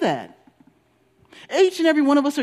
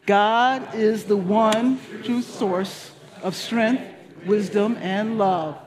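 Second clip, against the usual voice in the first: very slow, deliberate reading of the affirmation; slower than usual. Shown as a demonstration. Pastor leading the weekly affirmation, slow and deliberate. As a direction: read it slowly, savoring each word. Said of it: "Please let's read it together".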